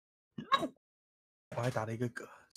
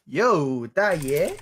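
fake ABC accent; 5 dB louder, much slower than usual. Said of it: "那种假A B C".

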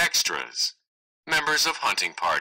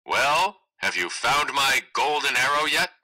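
raised, pushy voice of a spoiled son; loud and demanding; 5 semitones higher than usual. Acted. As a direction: bark it out louder and higher like a brat. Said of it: "loud and demanding".

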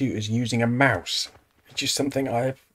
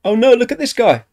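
mock horror; 11 semitones higher, 11 dB louder than usual. Real, not acted. Laughing at a game character.

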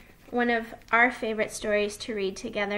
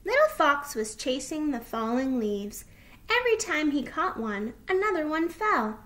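lively, lilting storybook narration; story reading to children; 5 semitones higher than usual. Acted. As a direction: read it to little listeners, pitch rising with the chase.

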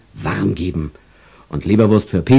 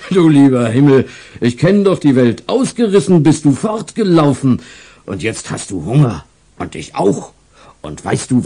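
a hint of an old man, amused but a bit sad; chuckling, slightly wistful old seller; kindly old stall owner; 4 semitones higher, 3 dB louder than usual. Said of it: "lachte laut, aber fast traurig".

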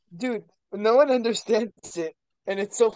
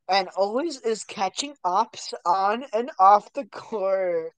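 sports announcer. Pretend. Mock sports announcer hype.

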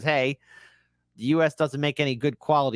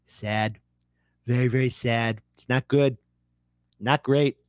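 Trump impression; 3 semitones lower than usual. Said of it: "gotta do my Trump impression".

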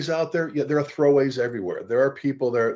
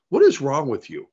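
mildly heated, imitating an upset boss; retold outburst, only slightly raised; retold seething; 4 dB louder than usual. Officer confronting a failing firefighter, retold seething. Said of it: "I was seething. I was so upset".

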